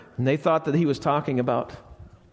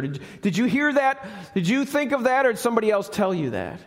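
pointed question; 4 semitones higher, faster than usual. Acted. Jesus answering Pilate, sharp.

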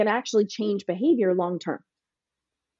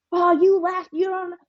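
mock angry teen; 10 semitones higher, 3 dB louder than usual. Angry teen voiced by parent.

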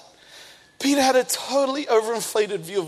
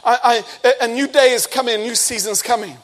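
mock churchy encouragement; 4 dB louder than usual. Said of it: "we talk about the season".

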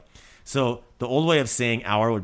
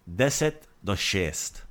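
slow demo; slower than usual. Shown as a demonstration. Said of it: "or you could say".

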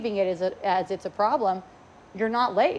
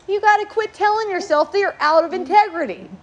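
louder and higher, building on each working; insistent advice; 7 semitones higher, 4 dB louder than usual. Retold or imitated. Telling a student to stop chasing integrity, rising insistently. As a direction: push them harder with every working. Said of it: "And I go".

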